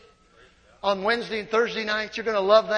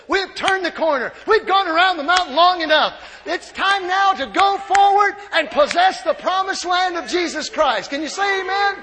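loud, high triumphant cry; rally the church to possess the land; calling the congregation to amen at full force; preaching shout; 6 semitones higher, 7 dB louder than usual. Real, not acted. Preacher climax, call and response.

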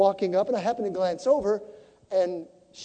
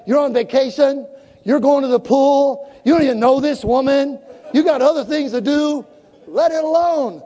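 higher, louder arguing inner voice; nagging inner voice; 6 semitones higher, 7 dB louder than usual. Retold or imitated. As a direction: push back hard on your own good intentions. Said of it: "other things rumbling down here".

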